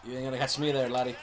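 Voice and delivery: accidental touch of Irish; lightly Irish-accented taunt. Real, not acted. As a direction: slip lightly into an Irish lilt. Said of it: "I turned Irish there for a second".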